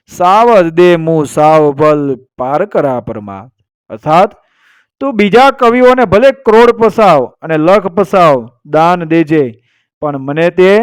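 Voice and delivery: measured, dramatic Gujarati storyteller narration; folk storytelling. A narrator's reading. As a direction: tell it as a folk legend, with deliberate pauses.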